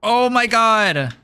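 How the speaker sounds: high, slow drawn-out oh my god; surprised gasp. Real, not acted. Alone on camera, suddenly shocked, slow high exclamation. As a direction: stretch it out in shock.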